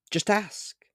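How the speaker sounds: hushed whispered urging. A narrator's reading. Stranger tempting the boy, whispered. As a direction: breathe it, unvoiced.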